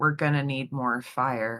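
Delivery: quiet, soft, hushed whisper. Karen in the back seat quietly speaks up: quiet whisper. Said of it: "would kind of quietly whisper".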